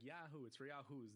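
drawled cartoon slogan; Stinky's drawl. Cartoon kid auditioning with a drink slogan, drawled accent. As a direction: put on a kid's drawling accent. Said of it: "he speaks in a drawl".

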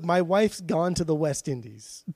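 put-on a light stab at an English accent; hint of an English accent; mild English accent. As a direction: say it as an Englishman would. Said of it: "in an English accent".

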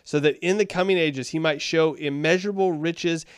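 emphatic Bible reading; scripture reading. Acted. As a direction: read the verse aloud with firm emphasis. Reads scripture aloud.

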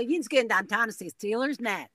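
Pittsburghese statement-question; clipped Pittsburgh yinz speak; rolling Pittsburgh accent. Shown as a demonstration. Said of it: "They would say".

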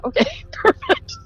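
very high, laughing mock agreement. Woman told her voice is the problem, high mock agreement. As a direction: squeak out a sarcastic acceptance through a laugh.

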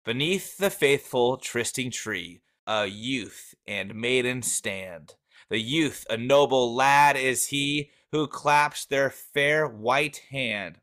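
measured poetry recital in own voice; earnest, lightly formal poem reading. Acted. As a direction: read it out as verse, unhurried at line ends. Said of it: "in my best poem reading voice".

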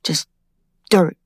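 breathless whisper, voice almost gone; hushed whisper. Acted. Whispering alone at the empty hiding place. Tile out, secret box empty.

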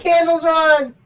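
high, loud frantic retelling; mock panic about the candles; panicked friend. Friend's panicked texts voiced.

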